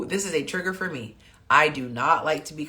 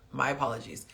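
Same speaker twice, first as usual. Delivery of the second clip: soft, lowered apology; voice brought down; 3 semitones lower, 7 dB quieter, faster than usual. Acted. Coach models apologizing to a partner, voice brought down. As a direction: drop the volume and apologize quietly. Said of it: "and bring it down".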